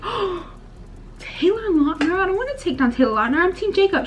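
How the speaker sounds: high, retold outrage over the poster; mock shock. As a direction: squeal it like a betrayed teen fan.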